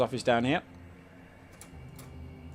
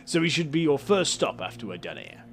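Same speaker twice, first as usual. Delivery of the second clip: light Cockney councillor voice; a hint of Cockney, welcoming tone; Cockney accent; 3 dB louder than usual. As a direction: play the councillor with a mild Cockney lilt. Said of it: "he's got a Cockney accent".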